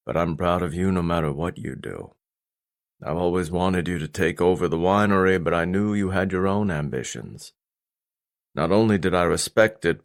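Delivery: a hint of a grave, caring father; stern father, proud. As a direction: declare pride, then lay down your limit.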